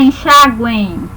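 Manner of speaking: Enxaguem said slowly with a faint i-sound at the end; soft i glide. Shown as a demonstration. Teacher shows students the hidden faint i, slow and careful. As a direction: stretch Enxaguem, letting a faint "i" follow the final e. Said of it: "um izinho aqui que a gente fala bem, de maneira bem fraca".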